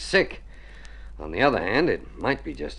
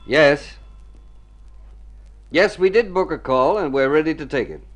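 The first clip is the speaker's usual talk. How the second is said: phone voice; 8 semitones higher, 7 dB louder than usual. Acted. Answering the phone call.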